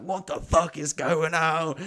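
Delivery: high, slow, drawn-out mock bewilderment; exasperated disbelief. Driver stuck at fifteen in traffic, retold exasperation.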